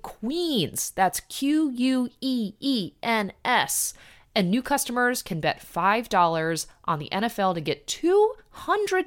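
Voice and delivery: bright sponsor read. Acted. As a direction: spell the promo code clearly. Host finishes sponsor ad.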